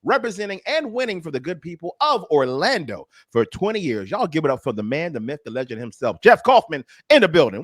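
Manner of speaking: emcee building up to the name; hype guest introduction. Acted. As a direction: introduce the guest like a live announcer.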